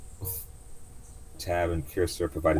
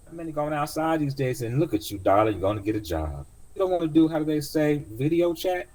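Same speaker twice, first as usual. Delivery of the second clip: put-on much higher, sweet old auntie greeting; old cab driver; 10 semitones higher, 4 dB louder than usual. Taxi driver greeting her young passenger, high doting voice. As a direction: coo a welcome like a kindly old driver.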